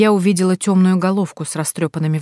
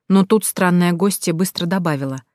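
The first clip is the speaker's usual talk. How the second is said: usual speaking voice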